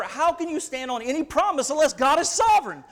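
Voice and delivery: building into an indignant outburst; worked up. Real, not acted. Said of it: "I'm getting worked up".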